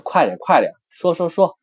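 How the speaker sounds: rising, eager 快点 快点; teacher acting out a cheer. Shown as a demonstration. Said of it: "还有一种意思就是说".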